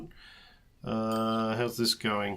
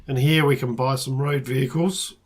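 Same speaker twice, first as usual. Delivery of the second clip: hoarse voice; 3 dB louder than usual. Real, not acted. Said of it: "I'm losing my voice".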